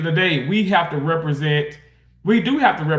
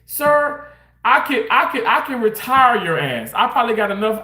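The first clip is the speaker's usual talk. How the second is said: imagined telling off; 4 semitones higher than usual. Retold or imitated. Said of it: "in my head".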